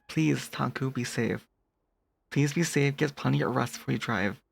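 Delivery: soft, caring plea; gentle concern. Real, not acted. Streamer urging a viewer to drive safely, gentle concern.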